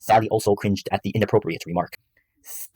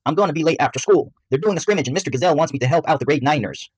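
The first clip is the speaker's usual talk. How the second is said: put-on high-pitched boy calling out; yelled; 7 semitones higher than usual. A narrator's reading. Son telling his mom he'll be late, calling out. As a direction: call it across the house, high and lifted. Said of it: "Bradley yelled as he was making".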